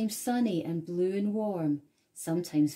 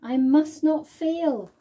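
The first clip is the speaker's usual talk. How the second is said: slow, louder, resolute; determined vow; 7 semitones higher, 9 dB louder than usual. A narrator's reading. Snail vowing to save the whale, determined. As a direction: grit it out with resolve. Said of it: "said the tiny snail".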